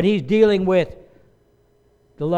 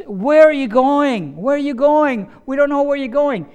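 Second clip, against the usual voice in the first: panicked disciples; 9 semitones higher, 7 dB louder than usual. Acted. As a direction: plead like frightened followers who don't know where he goes. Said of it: "You hear the panic in their voice?".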